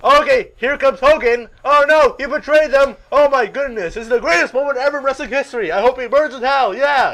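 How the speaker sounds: high, loud, one-tone announcer; Tony Schiavone. Retold or imitated. Commentator reacting to the betrayal, loud monotone. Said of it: "he has one tone in his voice".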